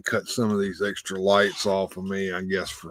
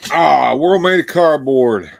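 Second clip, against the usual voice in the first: laughing; 6 semitones higher, 11 dB louder than usual. Real, not acted. Laughing at comment on stream.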